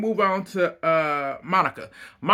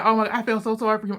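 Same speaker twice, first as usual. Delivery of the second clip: mocking sympathetic viewers; 4 semitones higher, much faster than usual.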